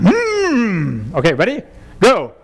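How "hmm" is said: angry grunt. Shown as a demonstration. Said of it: "with the emotion of anger".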